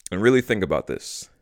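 talking while chewing gum. Real, not acted. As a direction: speak around a wad of gum. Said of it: "Sorry, I'm chewing gum".

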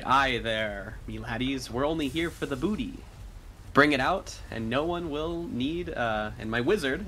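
lilting mock pirate captain; John impression. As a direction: put on a swaggering seafarer's threat. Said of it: "do his best John impression".

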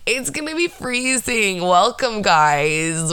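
high, drawn-out mocking quote; mock panic. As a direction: imitate overdramatic cold-weather panic, stretched out. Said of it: "somebody panicking and putting on ten jackets".

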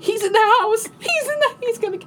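retold whisper. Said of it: "I'm whispering on the phone".

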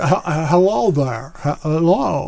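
a light stammering Jimmy Stewart. Retold or imitated. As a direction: stutter the hello like Jimmy Stewart. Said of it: "Jimmy Stewart".

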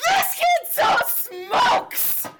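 high slow gleeful shout; excited shout. Real, not acted. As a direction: crow it like you called it. Triumphant shout.

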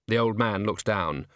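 ordinary delivery, nothing marked

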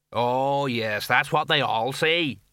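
slow, lightly voiced sergeant; drawn-out disbelief from a plodding officer; sceptical police sergeant. Sergeant to wizard, sceptical.

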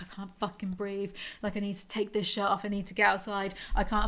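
a retold panic, quiet and airless; panicked breathless mutter. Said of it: "being like".

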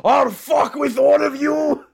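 slow, high-pitched monster scream. Retold or imitated. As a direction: roar it out slowly like a crazed monster. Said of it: "he's just gotta be screaming out".

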